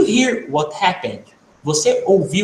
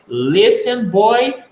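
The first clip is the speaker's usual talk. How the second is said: mock mother's warning, higher pitched; scolding mother; 4 semitones higher, 4 dB louder, much slower than usual. Mother warning her son to pay attention, scolding. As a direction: play a mum calling her son to attention. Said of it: "a sua mãe falar pra você".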